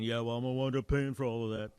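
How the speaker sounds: doubtful grumbling caller; lightly voiced skeptic, scoffing. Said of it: "That's my imitation of a skeptic".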